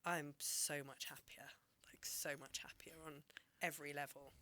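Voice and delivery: soft, near-whispered confession; quietly relieved, almost whispered; hushed sincerity. Real, not acted. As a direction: let it drop to an almost breathless hush. Heartfelt admission of being happier.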